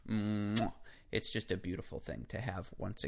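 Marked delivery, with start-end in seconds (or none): 0.1-0.7 drawn-out "mwah" kiss sound; chef's kiss. Pretend. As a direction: smack a savouring chef's kiss. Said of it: "fingers up in a gesture like, "Mwah".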